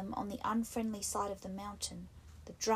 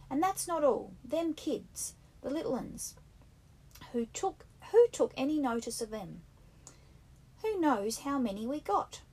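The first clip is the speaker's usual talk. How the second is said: raised, insistent schoolboy voice; Piggy scolding; 5 semitones higher, 5 dB louder than usual. A narrator's reading. Piggy rebukes the boys at the fire, indignant and raised. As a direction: lecture them like a fussy, put-upon boy. Piggy worried about little uns.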